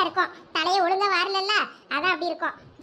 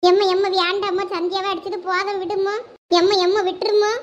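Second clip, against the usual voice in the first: louder, begging cries; desperate pleading; 3 dB louder than usual. Acted. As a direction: plead to spare her sister. Child begs mother to stop.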